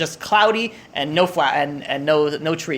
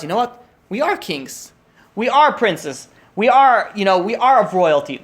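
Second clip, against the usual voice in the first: triumphant realization; 4 semitones higher, 4 dB louder, slower than usual. Acted. Soul reawakens, realizes royalty.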